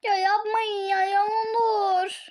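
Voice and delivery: drawn-out tearful plea; real crying. Real, not acted. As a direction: beg through tears. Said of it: "yeterince ağlamayacağım". (ağlamaklı yalvarış)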